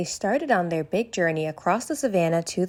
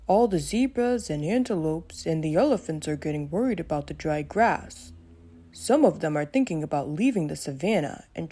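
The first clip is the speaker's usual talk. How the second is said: lightly voiced tired Mickey; a hungry friend, a hint of weariness. Mickey explains the drought.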